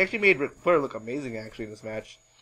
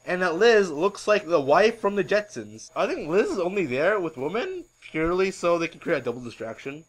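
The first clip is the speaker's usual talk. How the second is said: ordinary talk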